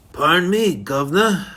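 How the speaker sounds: a barely-there bad English accent, "governor" said "guvnah" with a falling end; the speaker putting on a sarcastic, hammed-up Cockney "guvnah" that hardly leaves the narrator's own voice; lightly voiced mock English accent, the "governor" bit thrown in sarcastically; terrible English accent. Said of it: "with a terrible English accent".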